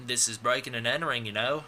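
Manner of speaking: brisk, badly faked British accent; wandering mock British accent; muddled put-on accent. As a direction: rattle it off in a clumsy British accent. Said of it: "I don't know what that accent was".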